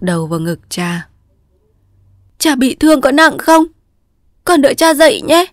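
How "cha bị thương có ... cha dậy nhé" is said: put-on high, loud, worried girl's voice; anxious young daughter. A narrator's reading. A young girl anxiously asking her wounded father to hold on. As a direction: plead gently but urgently.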